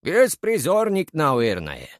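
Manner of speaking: a dismissive shrug in the voice; shrugging grill cook. A narrator's reading. Grill cook shrugs off the thugs' question, slow and offhand. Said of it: "пожал плечами мангальщик".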